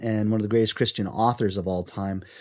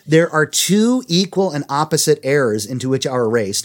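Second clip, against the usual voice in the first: measured, emphatic read-aloud; reading a quote aloud; 4 semitones higher, 3 dB louder than usual. A narrator's reading. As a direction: read it out clearly to listeners. Reads a book quote.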